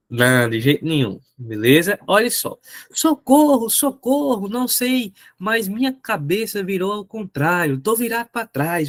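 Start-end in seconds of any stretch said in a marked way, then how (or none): 2.9-8.9 mock panicked cry for help, high; desperate boy. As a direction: play the frightened boy, squealing. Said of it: "o menino desesperado aí". (menino desesperado, agudo e aflito)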